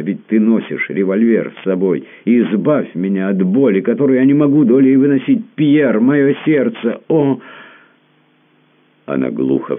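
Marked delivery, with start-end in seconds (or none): 0.0-7.4 climbing much higher and louder into anguish; sobbing plea. A narrator's reading. Baroness on her knees begging the prince to shoot her, anguished rising cry. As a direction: beg him to end the pain, breaking into a cry. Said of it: "рыдала она".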